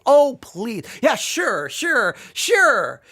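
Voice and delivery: sarcastic disbelief. Retold or imitated. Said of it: "sarcastic disbelief".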